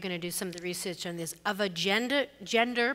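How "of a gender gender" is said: gender with Boston accent, "gendah"; dropped r in "gender", Boston style. Real, not acted. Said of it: "that was my Boston accent".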